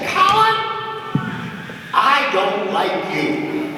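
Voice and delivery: slow, grave words from a stern mother; serious mother voice. Retold or imitated. Mother sets her son on the counter, dead serious. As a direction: deliver it like a mother's final verdict, slowly. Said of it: "in the most serious voice she could come up with".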